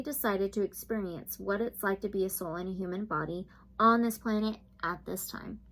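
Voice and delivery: a lightly held soothing reading voice; reading aloud. Acted. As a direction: read the card meaning gently. Reads the guidebook text.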